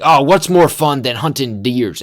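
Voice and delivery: hammed-up love of the hunt; mock eager hunters. Townsfolk at the bar counting down to deer season, mock eager. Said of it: "they just love their deer hunting".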